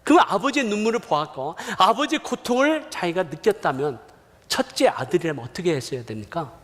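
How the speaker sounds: ordinary talk, nothing marked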